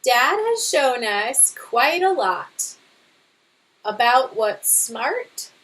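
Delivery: lively storybook read-aloud; reading to children. Acted. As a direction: read it to a class, bright and expressive. Teacher reads picture book aloud.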